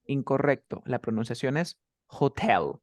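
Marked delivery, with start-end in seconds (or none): 2.1-2.7 "hotel" with the weight on tel; stress on second syllable. Shown as a demonstration. Teacher correcting student's pronunciation, stressed final syllable. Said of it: "La fuerza de voz es en tell".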